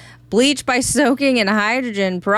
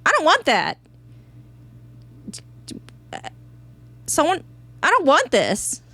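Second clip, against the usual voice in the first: put-on high whiny German accent; hammy German complaint, pitched up; 9 semitones higher, faster than usual. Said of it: "said very Germanly".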